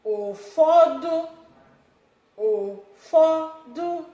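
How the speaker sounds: Ụfọdụ drawn out slowly, pitch rising; teacher modelling Ụfọdụ for students; slow Igbo word. Shown as a demonstration. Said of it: "I'll repeat this one".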